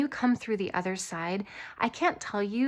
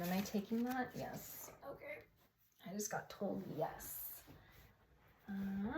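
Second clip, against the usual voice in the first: hushed aside; 14 dB quieter than usual. Real, not acted. Hushed aside while handling cards.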